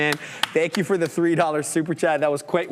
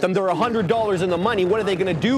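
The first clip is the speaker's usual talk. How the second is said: higher-pitched mock worry; facetious; 4 semitones higher, faster than usual. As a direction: fret facetiously on others' behalf. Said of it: "I'm being as facetious as I could".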